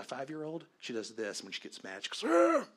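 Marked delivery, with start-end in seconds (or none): 2.3-2.6 put-on very high, loud shriek of a mad little girl; loud mock tantrum shriek; angry child scream. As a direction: scream like a furious five-year-old. Five-year-old gets mad.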